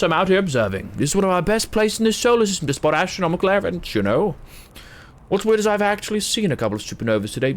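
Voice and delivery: chirpy alien astronomer voice. Acted. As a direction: greet an old friend warmly, high-pitched. Voices game character Chert.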